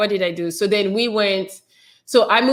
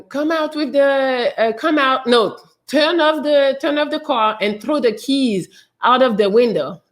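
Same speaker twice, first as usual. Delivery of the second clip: megaphone commands; 5 semitones higher than usual. Retold or imitated. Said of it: "like, with the megaphone talking about".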